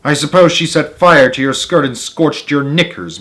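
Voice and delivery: usual speaking voice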